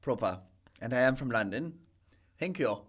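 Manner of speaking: put-on London English; London gentleman accent. Guest playing a proper Londoner, mock London gentleman accent. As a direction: introduce yourself as a London gent. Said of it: "you're a proper London gentleman".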